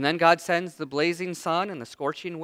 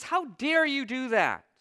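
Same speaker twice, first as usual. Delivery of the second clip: indignant Jonah; 5 semitones higher, slower than usual. Acted. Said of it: "Jonah says".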